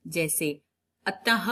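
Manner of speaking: ordinary talk, nothing marked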